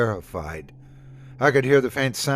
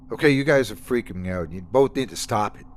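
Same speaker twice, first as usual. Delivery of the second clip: fast, irritated snap at friends; snapping; faster than usual. Acted. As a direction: cut them off quickly. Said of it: "snapped Lena".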